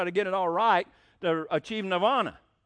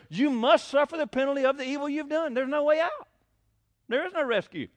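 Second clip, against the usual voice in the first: mock stern prophet; 7 semitones higher than usual. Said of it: "Zoroaster says".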